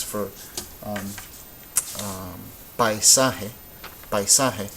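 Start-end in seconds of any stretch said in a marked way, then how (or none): 2.8-4.7 paisaje with a and i in one syllable; diphthong pronunciation. Shown as a demonstration. Teacher contrasting it with taíno, diphthong pronunciation. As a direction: say paisaje as pai-SA-je. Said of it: "if we need to kind of promote".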